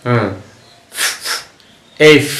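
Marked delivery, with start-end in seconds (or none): 2.0-2.3 "এফ" ending in a long hissed f, teeth on lip; correct pronunciation. Shown as a demonstration. Teacher models the letter F for learners, corrected pronunciation. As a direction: let air stream out on the f of "এফ". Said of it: "বাতাসও যাবে".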